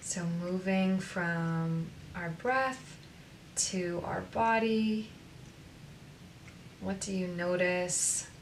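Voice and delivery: unhurried guide with long pauses between phrases; guided meditation. Acted. Coach moving listeners from breath to body, guided meditation. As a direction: lead them gently through breath and body.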